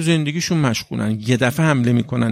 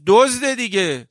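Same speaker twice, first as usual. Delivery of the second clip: scornful; 8 semitones higher, slower than usual. Real, not acted. Preacher's scornful punchline.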